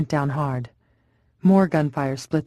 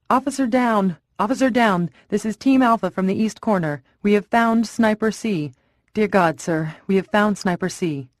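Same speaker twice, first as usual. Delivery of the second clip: horrified radio shout; 5 semitones higher than usual. Acted. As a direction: shout it in, shaken by what they found. Horrified radio call from roof.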